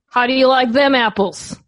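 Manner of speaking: put-on light Boston accent with bar swagger. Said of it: "in my new Boston accent".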